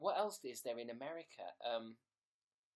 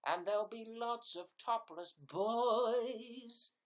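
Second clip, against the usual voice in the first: show host voice; 5 semitones higher than usual. Pretend. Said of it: "sing an intro song".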